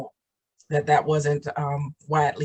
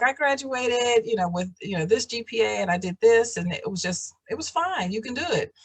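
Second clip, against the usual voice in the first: mocking presenter; 5 semitones higher than usual. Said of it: "it's like".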